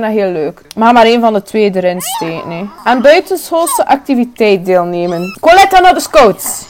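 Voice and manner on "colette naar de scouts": slow, high stage whisper; hushed mock conspiracy. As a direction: whisper it like a secret. Announcing a secret plan.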